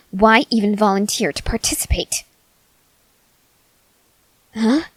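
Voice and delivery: whispered contempt; scornful whisper. Acted. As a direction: hiss the question in a whisper.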